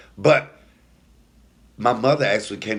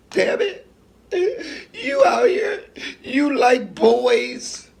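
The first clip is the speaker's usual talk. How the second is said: crying mother's wail, much higher and louder; imitating mom crying; 4 dB louder, much slower than usual. Mother wails and cries while beating her son. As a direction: wail it out through tears as the beaten mother. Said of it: "banging my head on the floor".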